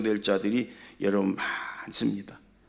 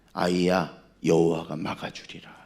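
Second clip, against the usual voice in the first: voice of God; 5 semitones lower than usual. Acted. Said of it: "하나님이".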